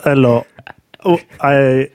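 playful put-on Russian accent. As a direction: greet them in a mock Russian accent. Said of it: "That was my Russian accent".

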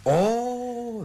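surprised. Acted. Surprised by morning visitor.

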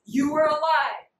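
loud distrustful king passing sentence; mock accusation. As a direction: play a suspicious king catching liars. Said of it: "like, not trusting of people".

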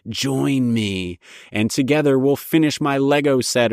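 mock villain, playful and teasing; a lightly hammed-up evil invitation; evil joking voice. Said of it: "an evil, joking voice".

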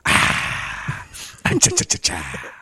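rough, barked chas from the throat; a throaty dog bark in short bursts; gruff barking noise. Shown as a demonstration. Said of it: "I could do a gruff voice".

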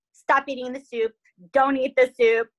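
mildly hammed-up freak-out. Wife stopping her husband eating the poisoned soup, mock panic. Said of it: "she freaks out and she's like".

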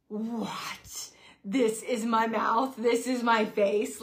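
hushed and slow, taking in the shock; barely breathing out the words in horror; stunned disbelief. Retold or imitated. Shocked at braces in mirror.

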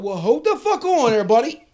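loud, laughing objection; loud protest. Retold or imitated. Prisoner objecting to waiting until Monday, loud and laughing. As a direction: stop them cold, loudly. Protesting to cops about the judge.

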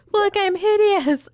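high, slow, whiny dramatic complaint; mock whiny wizard. Friend mimics wizard whining about red hair, high mock whine. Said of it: "he's like".

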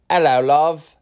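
amateur attempt at a Jamaican accent. Shown as a demonstration. Podcaster trying out accents on listeners, tentative Jamaican accent. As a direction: greet in a lightly put-on Jamaican accent. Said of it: "That's my Jamaican one".

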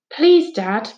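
pleading upward please dad; a boy begging his dad. A narrator's reading. Son begging his dad for a lift, pleading. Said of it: "begged Finn".

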